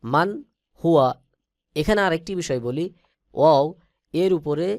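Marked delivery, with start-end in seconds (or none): 0.0-1.1 মান হুয়া with the nun said clearly before হা; clear izhar. Shown as a demonstration. Teacher models মান হুয়া for students. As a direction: keep the nun in মান distinct. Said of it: "এখানে ইজহার হবে".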